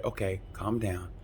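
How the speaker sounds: soft, quiet and soothing; a mechanic speaking quietly to calm the rider. Retold or imitated. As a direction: settle an upset rider down gently. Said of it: "the mechanic said".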